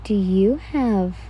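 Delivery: slow, drawn-out dramatic gasp of a question. A narrator's reading. Reader gasping dramatically at her friend. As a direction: ham up the shocked question. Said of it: "You spoke out dramatically".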